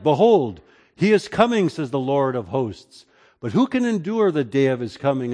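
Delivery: measured solemn reading of the prophet; scripture reading. Acted. Pastor reading Malachi to the congregation, solemn. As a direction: read it like the Lord speaking. Reads Malachi three aloud.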